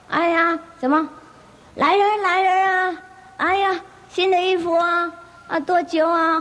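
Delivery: high, frantic cries of "come, people"; the elder yelling out for help, high and stretched; calling for help. Acted. Miser shouting for servants, high frantic calling. Elder finds strangers in his house.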